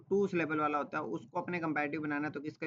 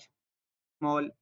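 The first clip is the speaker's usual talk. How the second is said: drawn out; 3 dB louder, much slower than usual. Shown as a demonstration. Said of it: "one syllable sound होते हैं".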